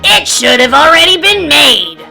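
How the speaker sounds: high-pitched storybook outburst of fury; indignant grumpy character exclaiming; furious. A narrator's reading. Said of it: "Grumpy was furious".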